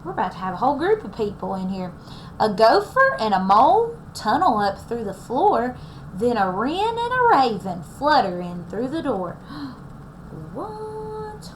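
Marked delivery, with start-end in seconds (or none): 2.4-9.4 put-on lively read-aloud for young listeners; storybook reading. A narrator's reading. Teacher reading the story to her class, lively storybook voice. 9.5-11.5 surprised gasp. Acted. Surprised reaction while reading.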